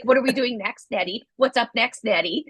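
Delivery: lightly voiced puppy-like eagerness; eager puppy. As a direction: pester playfully, lifting the pitch on each question. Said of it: "like I'm a little puppy chasing after you".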